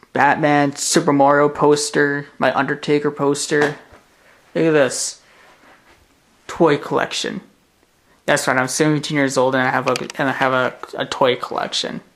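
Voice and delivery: loud, eager tour of his toys; loud, proud room tour; excited showing off. Real, not acted. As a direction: proudly show off the collection, loudly.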